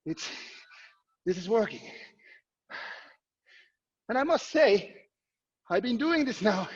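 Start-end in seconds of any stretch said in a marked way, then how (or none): 0.1-1.8 out of breath from the workout; breathing hard between words; heavy breathing. Real, not acted. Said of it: "Sorry for my heavy breathing".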